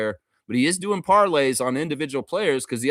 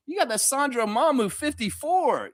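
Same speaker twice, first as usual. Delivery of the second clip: higher, hyped-up shout-out to the player; excited hype call; 12 semitones higher than usual. Real, not acted. Streamer hyping a player's dunk, excited call-out. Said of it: "repeats line in higher voice".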